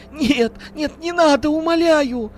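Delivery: very high, loud sobbing plea; terrified pleading. Acted. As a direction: beg for mercy in terror. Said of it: "рыдала женщина".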